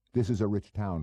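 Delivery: a hint of a cocky small-time operator; pushy hood Goebel. Goebel needling the narrator at dinner, lightly voiced cocky hood.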